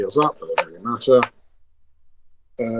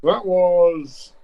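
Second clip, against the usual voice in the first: muffled behind a hand; talking through covered mouth; hand over mouth; 5 semitones higher than usual. Real, not acted. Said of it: "Have you got your hand over your mouth or something?".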